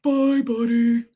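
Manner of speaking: slow, loud, stretched cartoon farewell; narwhal from Elf. Narwhal seeing Buddy off, slow cartoon voice. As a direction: drag it out in a creature voice. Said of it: "narwhal in Elf".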